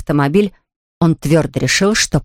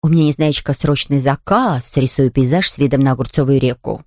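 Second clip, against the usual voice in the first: stern; 4 semitones lower than usual. Acted. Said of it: "строго сказал".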